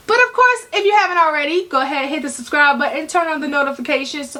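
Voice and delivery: bright salesy infomercial pitch. Real, not acted. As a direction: sell it like an infomercial host. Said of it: "Why did I just sound like an infomercial lady?".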